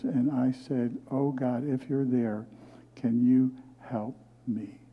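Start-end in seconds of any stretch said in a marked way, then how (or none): 1.1-4.8 soft, hushed plea to God, close to tears; tearful prayer. Retold or imitated. Alone in bed after crying, a soft tearful plea. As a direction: pray quietly as if still crying. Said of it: "I cried real tears".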